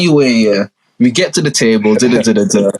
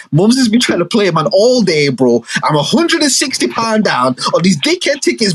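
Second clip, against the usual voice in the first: higher, heated venting; frustrated rant; 4 semitones higher than usual. Retold or imitated. Son ranting to himself about mum's plan, frustrated. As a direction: let the frustration pour out. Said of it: "I'm like".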